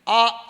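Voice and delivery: ఆ sounded with the mouth wide open; demonstrated open ఆ of Om; open-mouthed vowel. Shown as a demonstration. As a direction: open up fully on ఆ. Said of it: "నోరు తెరిచాం".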